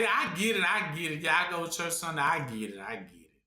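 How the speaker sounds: lightly mimicked churchgoer, fading away at the end; mock churchgoer. Preacher mimics everybody claiming they get it, lightly mocked, trailing off. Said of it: "See, everybody".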